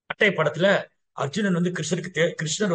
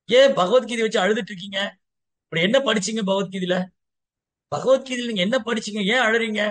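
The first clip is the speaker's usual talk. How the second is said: higher-pitched insistent questions; lightly acted, keen inquiry; eager questioning; 4 semitones higher than usual. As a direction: ask as if you truly want to know. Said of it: "ஆவலா கேக்குறாரு".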